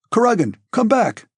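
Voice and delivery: high, urgent shout. A narrator's reading. Dólokhov to Anatole from the gate, shouting. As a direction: call him back in alarm. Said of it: "shouted Dólokhov".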